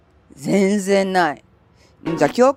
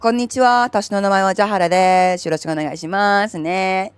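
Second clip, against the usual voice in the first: lower, steadier self-introduction; comfortable lower Japanese. Shown as a demonstration. Streamer repeats her Japanese greeting in her comfortable voice. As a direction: settle back into her natural pitch. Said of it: "that's a bit more comfortable for me".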